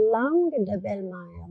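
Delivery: "langue de belle-mère" said quickly in French; French plant name; French pronunciation. Shown as a demonstration. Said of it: "And in French".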